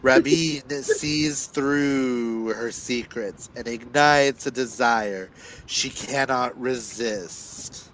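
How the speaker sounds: dramatic blurb reading with weighty pauses; dramatic telling. Acted. Reader performing the book synopsis aloud for listeners, dramatic. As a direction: read it like a movie trailer. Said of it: "you can't hear the dramatic telling".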